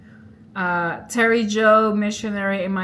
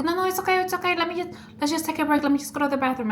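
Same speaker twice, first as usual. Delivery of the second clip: high, hurried pleading to calm her down; panicked pleading; 8 semitones higher, much faster than usual. Retold or imitated. Man pleading with a crazed girlfriend, panicked and high. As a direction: beg her to stop, voice pitched up in panic.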